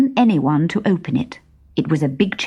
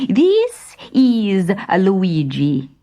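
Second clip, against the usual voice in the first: slow, hushed bandit voice; a slow conspiratorial whisper; secretive introduction; 2 semitones higher, much slower than usual. Acted. Thin bandit introducing his friend.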